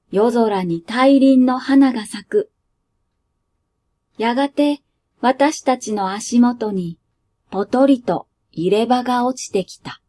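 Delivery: calm storyteller reading a short tale; 落ち着いた朗読; story narration. A narrator's reading. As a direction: read it like a bedtime story. Reads the story aloud.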